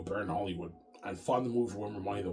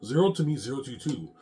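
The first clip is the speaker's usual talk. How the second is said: louder repeat; 4 semitones higher, 5 dB louder than usual. Retold or imitated. Repeating his refusal, now louder.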